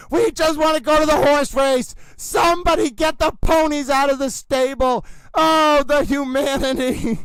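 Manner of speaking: overwrought race-caller crying out the humanity; dramatic announcer. Acted. Towel announcer begs for the horse race, mock anguish. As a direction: wail it like a disaster broadcast. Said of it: "I'm the horse racing announcer".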